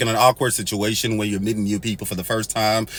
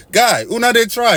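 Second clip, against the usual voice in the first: much higher, louder pidgin exclaim; exclamation incrédule; 10 semitones higher, 4 dB louder than usual. Real, not acted. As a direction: marvel aloud at them in disbelief.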